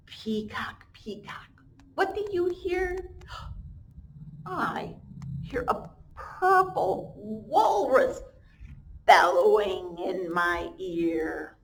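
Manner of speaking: sing-song slow storybook read; reading to children. Acted. Teacher reads the refrain aloud to her class, slow and sing-song. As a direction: chant the refrain for little ones.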